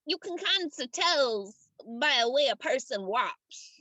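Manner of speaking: deliberate working-man character voice with long pauses; doubtful union gatekeeper. Acted. Game master voices the gatekeeper.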